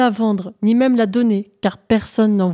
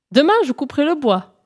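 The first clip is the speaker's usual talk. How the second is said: calling out loud; 6 semitones higher, faster than usual. Acted. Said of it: "cria-t-il bien fort".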